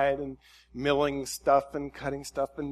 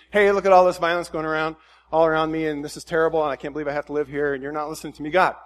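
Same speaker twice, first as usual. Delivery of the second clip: mock complaining; 2 semitones higher, 7 dB louder, faster than usual. Habakkuk griping to God about the violence around him. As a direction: gripe to God like a fed-up neighbour. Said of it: "Job complains".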